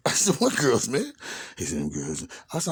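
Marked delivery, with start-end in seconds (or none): 0.4-1.1 higher-pitched mock innocence; nervous denial. Retelling his answer to Alan about the girls, nervous denial. 1.8-2.3 much lower, softer voice; low, understated menacing demand; changed, serious demeanor. Retold or imitated. Imitating Alan asking after the girls, changed, serious demeanor. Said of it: "his whole demeanor changed".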